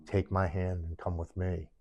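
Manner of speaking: soft, coaxing voice in his head; luring inner voice. Retold or imitated. Inner voice luring a man in despair, soft coaxing. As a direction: coax softly, offering relief. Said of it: "I hear this voice saying".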